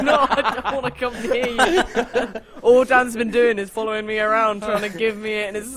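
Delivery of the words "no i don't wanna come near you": mock disgusted. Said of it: "it's like".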